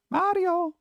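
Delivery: high, put-on call of "Mario" with a broad AH and tapped R; high-pitched mock shout, falling at the end; mock yell. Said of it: "How many times do I have to yell".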